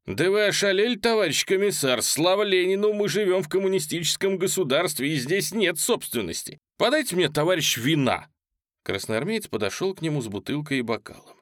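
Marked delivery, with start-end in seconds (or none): 0.0-8.3 high, loud scornful tirade; thundering retort. Acted. Polezhaev rebuking the commissar, loud and high. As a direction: thunder it back at him. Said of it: "загремел".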